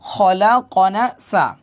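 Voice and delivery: very slow, drawn-out syllables; measured Quran-class sounding-out; joined-up spelling. Shown as a demonstration. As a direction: blend the letters into a slow recitation. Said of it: "এখান থেকে মিলান".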